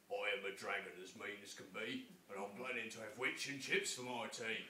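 mean dragon. Acted. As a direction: growl it like a hungry dragon. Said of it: "a roar that was scary and loud".

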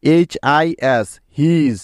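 এইচআইএস spelled out very slowly; slow classroom spelling; slow spelling demo. Shown as a demonstration. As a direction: stretch each letter of এইচআইএস. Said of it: "যেমন দেখো".

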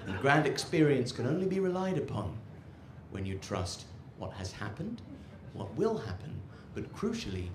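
lightly voiced pompous donkey; a hint of a solemn orator, quiet and measured; mock-profound speech with weighty pauses; talking donkey. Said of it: "and the donkey says".

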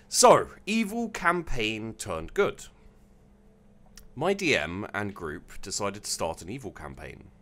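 measured, deliberate storytelling read; story narration. A narrator's reading. Streamer reading a submitted evil campaign story to chat, story narration. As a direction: read it out with phrases starting strong and falling away.

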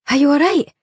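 tremulous. A narrator's reading. A woman at the crash asks tremulously, shaky. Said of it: "said a tremulous female voice".

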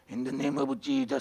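slow preacher's invocation in an imitated voice; Thomas Muti. Recalling a Kenyan pastor for the congregation, striking voice imitation. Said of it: "すごい声でね".

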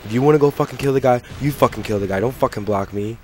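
loud, indignant outburst at a teammate; exasperated rant. Real, not acted. Gamer fuming at the teammate who blocked him, exasperated. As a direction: rant heatedly, punching out the complaint.

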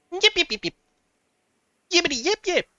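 high yappy little dog barks; yappy chihuahua voice. Pretend. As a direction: yip like a tiny excited chihuahua. Barking like a tiny dog.

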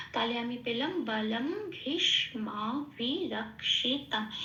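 slow, syllable by syllable for the rhythm; broken into syllables. Shown as a demonstration. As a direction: break each word apart to keep the beat. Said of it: "এইভাবে ভেঙে ভেঙে বললে তবে ছন্দ আর তালটা ঠিক". (ছন্দ রেখে ভেঙে ভেঙে ধীরে বলা)

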